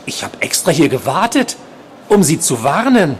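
high-pitched uncanny patient voice; creepy stalker, warning. A narrator's reading. Patient warning the nurse alone in the dark, high creepy voice. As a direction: warn her in a high, insistent voice.

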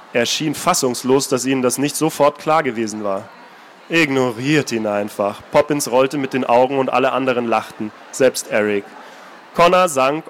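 even, measured reading voice; calm storyteller reading a novel aloud; story narration. A narrator's reading. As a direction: read it like an audiobook narrator. Author reads novel aloud.

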